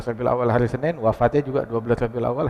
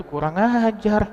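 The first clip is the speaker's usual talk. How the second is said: acted indignation; 4 semitones higher than usual. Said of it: "Siti Aisyah dengar begitu".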